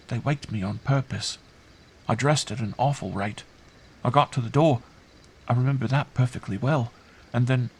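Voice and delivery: put-on high child voice, careful recounting; earnest child. Girl recounting her night to uncle, earnest.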